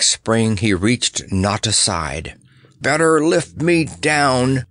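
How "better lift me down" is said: slow, puffing and out of breath. A narrator's reading. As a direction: puff it out breathlessly. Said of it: "puffed the clown".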